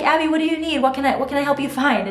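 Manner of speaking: lightly voiced big brother; sweet helpful stepson. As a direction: coax a little sister gently. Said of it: "he's like".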